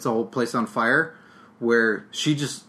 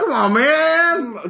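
high, slow whine, much higher; whiny begging Santa; 12 semitones higher, 3 dB louder, much slower than usual. Acted. Santa guest begging the hosts for presents, slow whine. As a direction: drag it out like a needy Santa.

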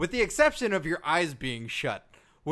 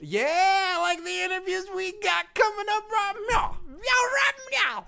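hammed-up hype; 12 semitones higher than usual. Host plugs upcoming interviews to co-host, hammed-up excitement. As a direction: stretch the last words high like over-the-top hype.

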